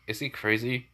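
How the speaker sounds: understated inner question; thinking to himself. Acted. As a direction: voice it as a private thought. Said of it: "thinking to himself".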